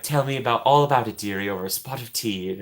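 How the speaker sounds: roughly imitated British motherly teapot voice; Angela Lansbury. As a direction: attempt a homely British accent, not very well. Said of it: "don't do a good Angela Lansbury".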